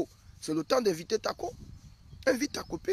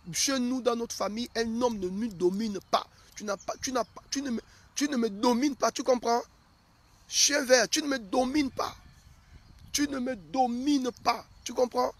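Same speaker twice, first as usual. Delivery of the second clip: acted angry outburst, high and rising louder; defiant wife; 6 semitones higher, 5 dB louder than usual. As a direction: play a wife refusing to be dominated, hammering it out. Acts woman defying her husband.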